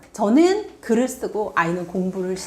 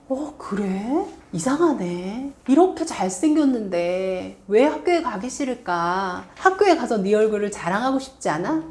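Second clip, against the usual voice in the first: playful teasing. Retold or imitated. Mother joking with a child who won't go to school, lightly playful. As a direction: tease the kid gently instead of scolding. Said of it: "위트 있게 좀 가볍게".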